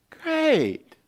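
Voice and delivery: high, drawn-out fake "great"; feigned enthusiasm. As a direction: put on strained delight at bad news. Feigned delight at unwelcome news.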